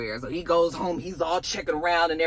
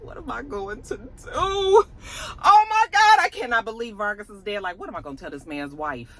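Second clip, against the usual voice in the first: mock crying; 3 semitones higher than usual. Stacy breaks down in the hallway.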